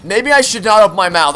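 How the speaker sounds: high, loud startled cry; startled yelp. Real, not acted. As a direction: caught off guard, yelp it. Jumps off cliff, high reaction.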